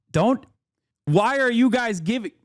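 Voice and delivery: high, pleading cry to chat; high-pitched plea to chat; pleading protest. Real, not acted. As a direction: beg them to stop, half laughing. Begging chat to stop encouraging.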